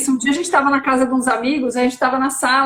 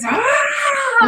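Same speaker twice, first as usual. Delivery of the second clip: angry scream imitated; 11 semitones higher than usual. Showing friends the boy's scream was anger, slow high yell. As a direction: stretch out a furious child's cry.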